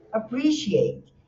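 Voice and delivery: "appreciate" slowly, with the peak on "pre"; second-syllable stress. Shown as a demonstration. Teacher models appreciate for students, second-syllable stress. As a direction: stretch and lift "pre" in "appreciate", falling after. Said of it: "a sílaba tônica é o segundo".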